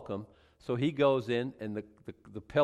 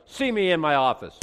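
"See me in my office" louder, heavy and foreboding; ominous reading; 4 semitones higher, 8 dB louder than usual. Shown as a demonstration. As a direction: read it like a death sentence. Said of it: "but I'm like".

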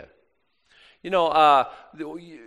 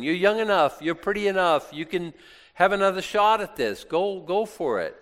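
coaxing Naomi; 5 semitones higher than usual. Retold or imitated. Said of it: "so she's like".

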